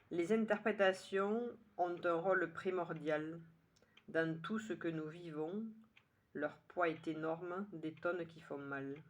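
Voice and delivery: measured poem reading, pausing after each line; poem recitation. Acted. Poet rereading the poem a second time, measured recitation. Je vous le relis une deuxième fois.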